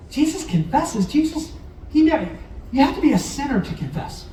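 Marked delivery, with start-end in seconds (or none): 0.1-2.3 mock surprise. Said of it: "you might think".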